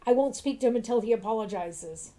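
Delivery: a hint of an indignant old grouch; grumpy old man. Old man complaining about the shopkeeper, mildly indignant. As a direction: huff about the shopkeeper's prices.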